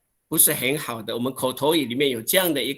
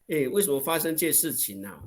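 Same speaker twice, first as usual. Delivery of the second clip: normal talking voice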